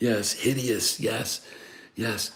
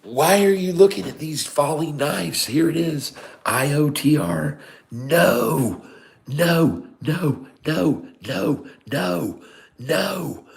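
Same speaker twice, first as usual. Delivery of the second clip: high, exasperated outburst; aghast disbelief; 8 semitones higher, slower than usual. Real, not acted. Streamer appalled at viewer's falling knives, high and exasperated. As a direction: protest in high-pitched disbelief.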